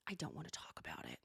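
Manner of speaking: very low, soft brush-off; mock reluctant mumble; deep, quiet refusal; shutting it down. Heather shutting down.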